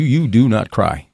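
"you do not cry" said slowly, word by word; emphatic rule. Retold or imitated. Strict family rule recited, emphatic.

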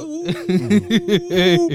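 high, loud hyped "Ooh"; hyped reaction. Acted. Host reacts to their own bathroom freestyle, hyped. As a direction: hype up your own bars, laughing.

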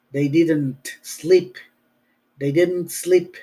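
slow, with the T in didn't sounded clearly; slow careful demo. Shown as a demonstration. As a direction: let the T in didn't ring out slowly. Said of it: "hay que tener cuidado que suene esa T".

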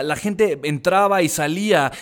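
normal talking voice

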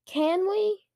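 put-on high, insistent child's plea; demanding. A narrator's reading. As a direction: press the question, pitch climbing. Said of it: "Luke demanded, ignoring Dad's request".

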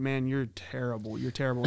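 calmly repeating the insult; mild retold taunt. Umpire taunt retold in a mild voice. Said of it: "just saying".

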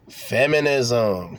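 drawn-out FEMINISM, every syllable stretched; slow teaching emphasis. Shown as a demonstration. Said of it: "Can y'all say it with me".

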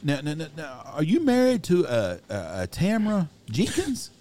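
high, slow, hesitant caller; hammed-up prank caller probing; mock prank caller. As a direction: drag it out high like a sly caller. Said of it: "He says".

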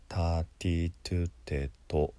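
"ターティートゥテト" with tongue-tip T on every syllable; タ行の手本. Shown as a demonstration. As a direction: recite "ターティートゥテト" as a T-row model. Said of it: "他行のね". (「ターティートゥテト」をT音で手本)

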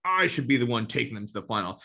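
hammed-up envious griping; mocking jealous coach. Jealous coach muttering about the final, mock envious. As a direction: whine like a coach who wants the job. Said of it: "hear them talking about on the sideline".

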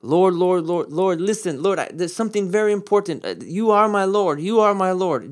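a hint of desperate flattery; urgent pleading. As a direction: call out Lord, Lord, like it can't wait. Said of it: "That would be like saying".

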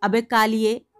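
loud, forceful reprimand; angry scolding. A narrator's reading. Schoolmaster correcting a pupil, loud angry scolding. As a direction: shout the correction, hammering the last word. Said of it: "डांट कर कहा".

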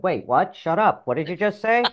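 lightly acted outraged ego, rising to a high question; big loud inner voice. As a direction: cut in as the bossy voice in the head. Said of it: "this big loud voice said".

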